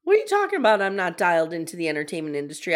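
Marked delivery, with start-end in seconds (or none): 0.0-0.8 high, loud mock outrage; mock indignant. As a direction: act offended.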